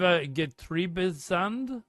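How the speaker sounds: "Getriebesand" spelled out slowly, syllable by syllable, like "ket-thri-pis-sand"; careful German username. Shown as a demonstration. Streamer reading a viewer's German name aloud, slow and unsure. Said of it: "I know I'm probably butchering that".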